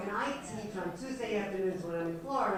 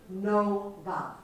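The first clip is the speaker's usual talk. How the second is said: louder, clipped no-nonsense demand; firm demand; 5 dB louder than usual. Retold or imitated. Wives telling their golfing husbands, firm loud demand. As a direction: put your foot down on it.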